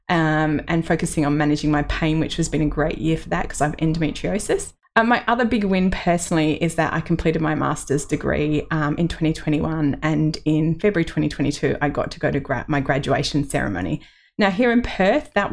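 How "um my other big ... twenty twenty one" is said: ordinary talk, nothing marked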